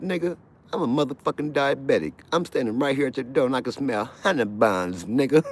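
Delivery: high, loud barking guard; mock guard yell. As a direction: bellow like a prison guard. Guard ranting at inmate.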